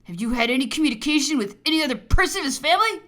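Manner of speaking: loud, overbearing reprimand; angry rebuke. Acted. Governor forbidding the officer's communications, angry rebuke. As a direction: lay down the law at full voice.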